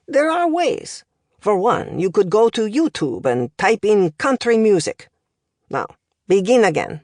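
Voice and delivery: lightly voiced accented professor, lively lilt; language professor. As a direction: deliver it like a pedantic foreign tutor.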